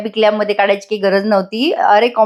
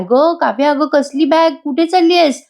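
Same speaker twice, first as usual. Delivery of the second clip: surprised by the bag, her voice rises sharply; surprised question; 5 semitones higher than usual. Acted. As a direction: pitch climbing higher with each line of the question, surprised. Nandini sees Kavya's packed bag.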